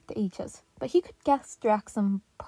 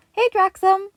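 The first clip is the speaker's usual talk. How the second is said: high, loud cheerful hello; happy greeting; 11 semitones higher, 12 dB louder than usual. A narrator's reading. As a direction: greet him with joy. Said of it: "happily greeted".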